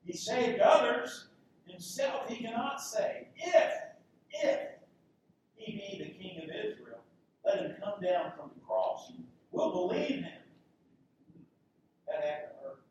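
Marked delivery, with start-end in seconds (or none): 0.0-10.4 hammed-up sneering at the cross; mocking taunt. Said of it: "These chief priests mocking him".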